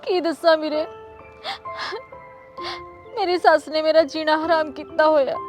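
sobbing softly to her brother; tearful phone complaint. Acted. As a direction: voice full of tears as she pleads. Daughter-in-law crying on phone. (ਫ਼ੋਨ ਤੇ ਭਰਾ ਨੂੰ ਰੋ ਰੋ ਕੇ ਦੱਸਣਾ)

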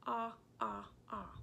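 Ah, ah, ah said as three short, clipped "ah" vowels; repeating short ah. Shown as a demonstration. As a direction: model the short O sound for the class. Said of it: "it's the short sound".

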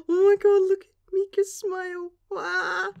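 high, gushing squeal; excited squeal. Real, not acted. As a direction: burst out gushing over the cute smile. Gushing over a cute panel.

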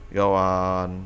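disbelieving. Acted. Disbelief at friend's Hollywood claim.

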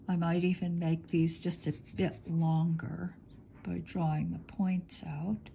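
normal talking voice

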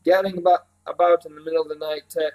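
lightly voiced country housekeeper; a hint of rustic bossiness; bustling Mrs Park. Housekeeper stops the boy to serve breakfast, lightly rustic.

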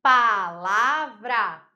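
"Palavra" very slowly split pa-la-vra, loud; slow, emphatic pa... la... vra; syllable by syllable. Shown as a demonstration. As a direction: punch each beat of "Palavra": pa, la, vra. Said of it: "três sílabas".

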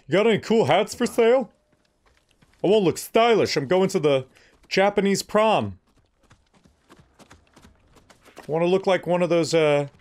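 high, loud, hammed-up customer voice; playful excited shopper. Player asks merchant for stylish prom hats, high and hammed-up. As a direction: pester the merchant in a high, silly voice.

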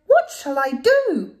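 high, loud despairing cry. Acted. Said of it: "The little old lady cried".

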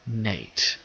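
quietly muttered, puzzled; confused mutter. Acted. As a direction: mutter the name, unsure. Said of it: "Owen muttered, a little confused".

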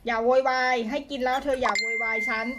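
loud, firm telling-off; scolding the pet. Real, not acted. Owner scolding her noisy prairie dog, loud and firm.

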